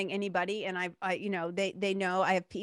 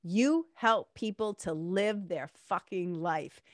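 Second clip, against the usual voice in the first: deadpan; 3 semitones lower, slower than usual. Retold or imitated. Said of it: "deadpan, like, totally serious".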